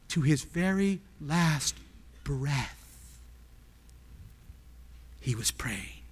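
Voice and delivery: slow, low and very soft; quiet, weighty, broken into slow phrases; hushed solemnity. Real, not acted. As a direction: let it fall away with long pauses. Hushed first take, then forceful repeat.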